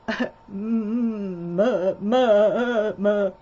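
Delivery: hesitant nervous hums, stalling for words; nervous mumbling. Acted. Nervous wise man before Joseph, stammering hums. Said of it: "this one's a bit nervous".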